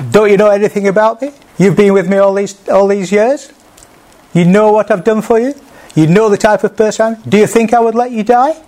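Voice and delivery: a mock scolding shout, then dismissed; pretend berating. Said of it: "Did he shout at them, saying".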